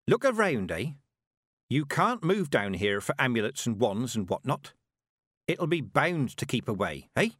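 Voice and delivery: lightly voiced old witch, firm; stern Granny. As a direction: make her look. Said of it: "Granny jerked Tiffany's chin up".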